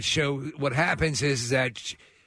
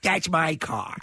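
lightly voiced Broadway diva; a touch of stage-star impression; Carol Channing; slower than usual. Co-host as the star claiming her car, light diva impression. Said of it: "Carol Channing in the Fast and Furious".

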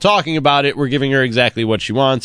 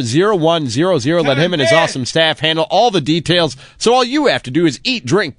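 ad read. Acted. Host resuming a sponsor plug over interruptions, ad read. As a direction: push on through the sponsor read.

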